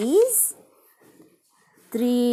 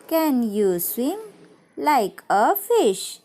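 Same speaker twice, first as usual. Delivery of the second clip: put-on sing-song children's rhyme; poem recitation. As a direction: recite it brightly for small children.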